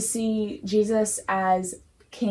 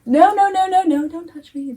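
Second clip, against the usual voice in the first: high, loud hammed-up protest; playfully exaggerated refusal, higher and louder; mock Peter refusal; 8 semitones higher, 6 dB louder, faster than usual. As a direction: rattle off the no's like a squeamish Peter. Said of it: "He goes from".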